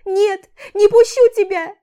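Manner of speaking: громкий высокий крик; кричать, не отпуская. A narrator's reading. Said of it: "продолжает кричать". (Аля кричит, загораживая дверь)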